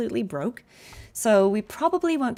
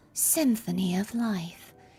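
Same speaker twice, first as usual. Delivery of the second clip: imitated soft whispery voice, quieter; 4 dB quieter than usual. Copying a game character's voice line after hearing it: imitating a whispery character voice. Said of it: "almost whispery wo-, voice".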